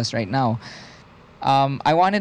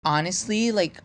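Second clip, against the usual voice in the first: put-on lightly done Valley Girl accent, softer, rising likes; 4 semitones higher, 4 dB quieter than usual. Co-host answers the request for a Valley Girl accent, softer and rising. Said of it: "Valley Girl accent, please".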